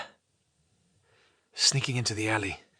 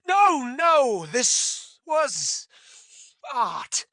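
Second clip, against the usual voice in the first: insistent; 13 semitones higher, 5 dB louder, much slower than usual. Acted. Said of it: "Kramer, shaking his head vigorously".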